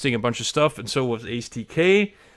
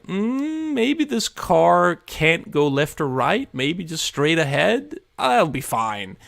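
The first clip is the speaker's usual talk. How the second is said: slow, higher mock reassurance; slow, higher self-soothing hedge; resigned self; 6 semitones higher, slower than usual. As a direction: talk yourself down, slowly. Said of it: "it's like".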